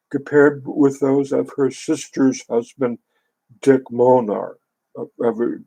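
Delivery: steady measured book reading; calm nonfiction narration voice; reading aloud. Acted. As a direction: read the passage evenly, like an audiobook.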